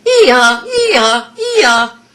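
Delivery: cracking ee-ah bray with a register break; donkey bray. Shown as a demonstration. Coach imitates a donkey to show the register break. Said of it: "It feels like a donkey".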